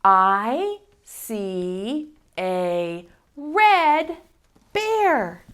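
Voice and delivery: drawn-out, word by word; slow model reading. Shown as a demonstration. Teacher modeling slow word-by-word reading. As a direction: model the sentence slowly for kids.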